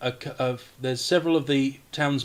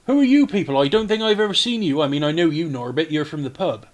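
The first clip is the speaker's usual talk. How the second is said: Mayor Nighthill; 3 semitones higher, 5 dB louder, faster than usual. Acted. Mayor questions the strangers he let in, puzzled then recognising. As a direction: demand to know them, then ease into recognition. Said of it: "I'm Mayor Nighthill".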